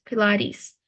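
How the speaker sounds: "Pilates" with the final e stretched to a long ee. Shown as a demonstration. Teacher showing student the ending, "Pilates" with stretched ee. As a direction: say "Pilates" as pi-LAH-teez, lengthening the last vowel. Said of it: "So E is like we stretch it".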